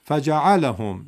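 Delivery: teacher's slow correct version; correct reading. Shown as a demonstration. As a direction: model the right فجعلهم, drawn out. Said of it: "پس بگید".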